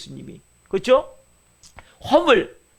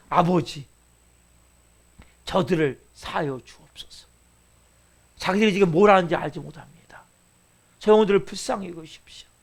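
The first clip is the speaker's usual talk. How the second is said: Jesus; 3 semitones lower than usual. Retold or imitated. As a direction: plead gently for mercy, imitating a prayer. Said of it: "이렇게 예수님이 기도하셨단 말이에요". (낮고 잔잔하게 기도하는 목소리)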